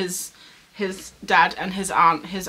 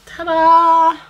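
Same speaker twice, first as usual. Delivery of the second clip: loud, high triumphant ta-da; ta-da reveal; 9 semitones higher, 12 dB louder than usual. Real, not acted. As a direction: announce the reveal with a flourish. Showing the new hat.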